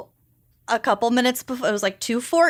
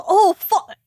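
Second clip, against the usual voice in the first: high startled "oh fuck"; startled boyfriend; 8 semitones higher, 3 dB louder than usual. Retold or imitated. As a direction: caught off guard, higher. Retold quote, mouth full.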